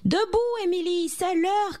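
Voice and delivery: high-pitched wake-up call; mother calling her daughter out of bed. A narrator's reading. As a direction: cry it out high, rousing a sleeper. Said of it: "cria madame Martin".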